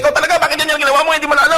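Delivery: high, fast, scolding voice; mock angry scolding. Preacher imitates an angry person scolding someone, high and fast.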